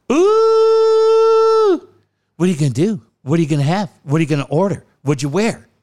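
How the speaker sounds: pry like a giddy gossip; nosy teasing. Retold or imitated. Imitating his friend grilling him about a date, high giddy teasing.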